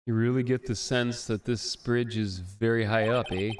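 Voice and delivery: a hint of Canadian accent. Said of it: "do the Canadian accent".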